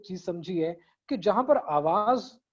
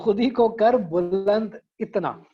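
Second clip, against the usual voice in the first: slow, louder couplet recital; verse recitation; 5 dB louder, slower than usual. Shown as a demonstration. Teacher reciting the counted verse to class, verse recitation. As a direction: recite it firmly and deliberately.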